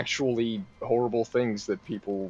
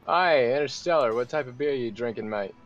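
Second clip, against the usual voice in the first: attempted Australian accent; 2 semitones higher than usual. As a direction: put on an amateur Australian mate voice. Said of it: "Why'd you say it like that".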